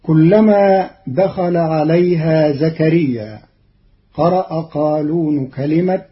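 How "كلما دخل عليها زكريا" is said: melodic tajweed chant of the verse; Quran recitation. Shown as a demonstration.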